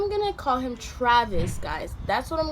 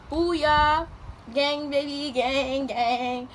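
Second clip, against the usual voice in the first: triumphant cheer; 3 semitones higher, much slower than usual. Retold or imitated. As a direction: celebrate the win. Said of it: "I was like".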